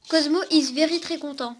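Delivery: put-on joking French-accented English; bad English accent. French speaker jokingly telling viewers the robot is happy, in a mock bad English accent. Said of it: "accent pourri comme ça en anglais".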